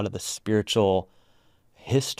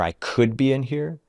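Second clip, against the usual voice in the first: "I could be in here" higher, lifting at the end; tentative possibility; 4 semitones higher than usual. Shown as a demonstration. Guide voices a mere possibility, tentative rise on "I could be in here". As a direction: leave "could be in here" hanging, unsure. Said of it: "there's this sense of".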